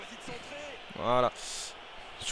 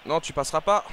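mild defiance; 4 dB louder than usual. Real, not acted. Defending against an attacker.

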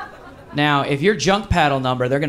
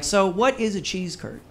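a hint of an English visitor asking; lightly voiced curious Englishwoman; English friend; 6 semitones higher, 4 dB quieter than usual. Friend from England asking the bartender, lightly voiced question. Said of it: "she's like".

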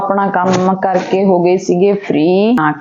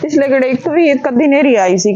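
excited; 6 semitones higher than usual. Real, not acted. Excited talk about dust storms.

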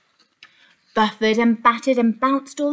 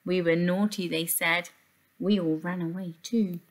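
soft low whimpering grapes; 5 semitones lower, 6 dB quieter than usual. Acted. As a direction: whimper it sadly and softly. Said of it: "they whimpered quite sadly".

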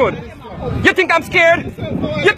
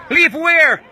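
indignant shout. Real, not acted. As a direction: throw the question back at them, yelling. Told to leave the premises.

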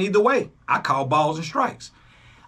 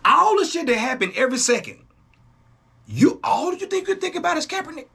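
higher, incredulous mocking rant; mock disbelief; 9 semitones higher than usual. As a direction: act stunned at their obsession. Mocking critic obsessed with Kaepernick.

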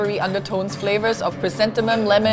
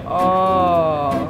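savoring "oh"; 4 semitones lower than usual. Real, not acted. Sees and smells the fresh buns.

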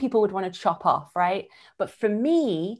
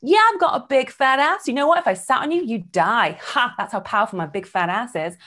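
cocky boast; 3 semitones higher, 4 dB louder than usual. Retold or imitated. Owning a flaw with a cocky, louder boast. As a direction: own it with swagger. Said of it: "in that way".

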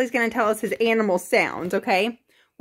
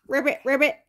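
lightly voiced frog ribbits; 3 semitones higher, much faster than usual. Shown as a demonstration. Parent showing toddler frog sound, light ribbit. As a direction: ribbit twice, a hint of frog. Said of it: "What does a frog say?".

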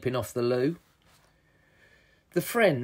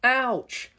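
pained yelp; 11 semitones higher than usual. A narrator's reading. Captain hurt in chase.

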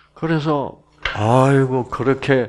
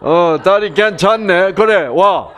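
Daegu husband; 7 semitones higher than usual. Retold or imitated. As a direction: lightly play a blunt Gyeongsang man. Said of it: "이게 대구 남자하고 부산 남자야".

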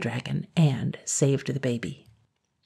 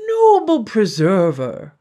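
slow, grand, louder proclamation; pompous mayor cry; 4 semitones higher, 7 dB louder, slower than usual. A narrator's reading. The mayor hails the blacksmith with slow grand pomp. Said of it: "cried the mayor".

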